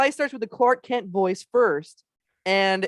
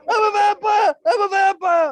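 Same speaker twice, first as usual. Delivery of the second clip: higher, louder yelling of the line; mock vampire shout; 12 semitones higher, 7 dB louder than usual. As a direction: shout it like running down the street. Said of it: "going past people in New York".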